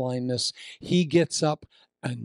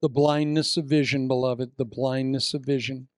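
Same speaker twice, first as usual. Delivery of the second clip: preaching. Acted. Preacher intoning the theme to the congregation, weighty. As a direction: let the phrase land with weight.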